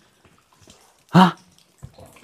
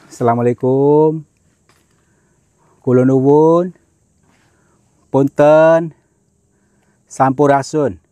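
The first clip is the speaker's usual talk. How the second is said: slow, formal plea for permission; solemn address to spirits; 2 semitones lower than usual. Real, not acted. Addressing cave spirits before entering, formal and solemn. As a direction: ask the unseen ones for leave, respectfully.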